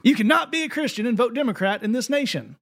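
high mock Southern preacher repeat; hammed-up Tennessee accent again in rant. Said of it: "I'm going to do the accent".

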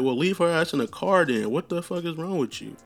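high, exasperated yell at a friend; angry outburst. Retold or imitated. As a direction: snap at him in disbelief. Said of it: "I'm like".

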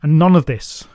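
loud boom on "none"; a giant king booms at the messengers. A narrator's reading. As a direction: boom out "none of this" over the host. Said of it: "His voice boomed and filled the air".

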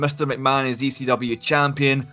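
upbeat cheesy advert voice; ad read. Acted. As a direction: sell it like an infomercial. Scripted ad read over music.

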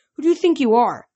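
loud, high anger; angry. A narrator's reading. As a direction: challenge her angrily. Percy angry.

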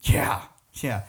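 breathy whispered aside. Real, not acted.

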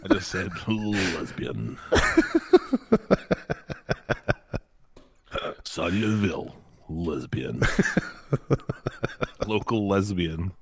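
soft laughing delivery; giggling. Real, not acted. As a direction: say it while giggling. Giggling through repeated joke.

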